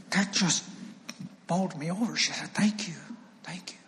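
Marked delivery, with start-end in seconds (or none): 2.5-3.8 whispered, overcome thanks, imitated; tearful thanks. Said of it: "she's just crying".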